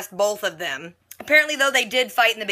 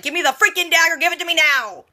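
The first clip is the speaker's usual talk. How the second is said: imitated angry yell, high and louder; mock a furious screaming demand, pitched up; ballistic; 7 semitones higher, 4 dB louder than usual. Arthur yelling at wife about the dagger, ballistic. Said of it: "he just goes ballistic".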